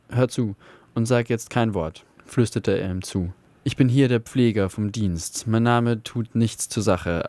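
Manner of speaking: steady, engaged audiobook reading; story narration. A narrator's reading. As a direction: read the tale like a radio storyteller. Reads a novel excerpt aloud.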